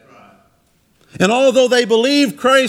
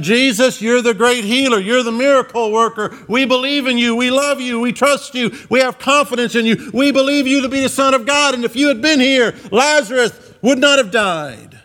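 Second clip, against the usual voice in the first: higher-pitched, mildly fervent declaration of belief; fervent faith; 3 semitones higher than usual. Retold or imitated. Preacher voicing the sisters' faith to Jesus, mildly fervent. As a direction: pile up each avowal with conviction. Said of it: "Their faith said".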